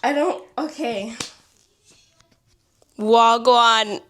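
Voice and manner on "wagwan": put-on a quick Jamaican accent greeting, tried out shyly. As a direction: say it like a Jamaican friend would. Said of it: "channel my inner Jamaican accent".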